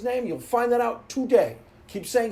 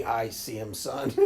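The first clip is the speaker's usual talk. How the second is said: imitating Ned Flanders; 12 semitones lower, 5 dB quieter, slower than usual. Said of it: "Ned Flanders".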